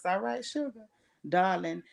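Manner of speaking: church lady voice. Acted. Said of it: "keep using my church lady voice".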